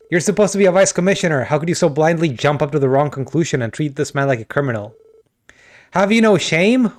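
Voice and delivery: wife scolding her husband in front of the realtor. Acted. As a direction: berate him for shaming himself.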